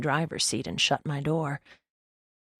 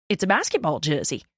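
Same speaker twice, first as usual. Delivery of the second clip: innocent. A narrator's reading. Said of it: "he says innocently".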